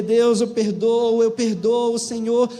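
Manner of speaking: a hint of crying through the words; retold tearful prayer. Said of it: "E ela começou a chorar e a dizer".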